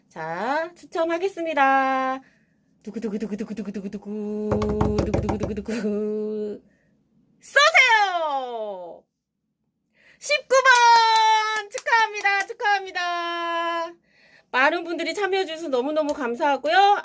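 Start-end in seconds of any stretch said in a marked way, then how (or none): 2.8-6.6 mouth drumroll. Acted. Drumroll before second draw. 7.4-9.0 hyped giveaway announcement. Acted. Calling for the draw. 10.2-11.7 slow, high, loud winner call; hyped giveaway announcement. Acted. 11.7-13.9 hyped congratulations. Acted. Congratulating the winner.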